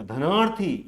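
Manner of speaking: धनार्थी with weight on the long ना; stress on long vowel. Shown as a demonstration. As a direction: lean on ना in धनार्थी. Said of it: "वहीं पर ज्यादा जोर दिया जा रहा है".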